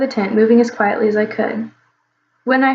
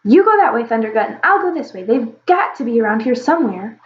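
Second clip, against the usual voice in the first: shouted. Acted. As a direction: shout it across the camp. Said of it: "A voice s-, shouted".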